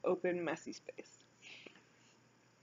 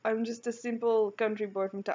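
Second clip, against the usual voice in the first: badly faked French accent; hammy attempt at a French accent; 3 semitones higher than usual. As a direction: try a heavy French accent and botch it. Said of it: "this heavy French accent".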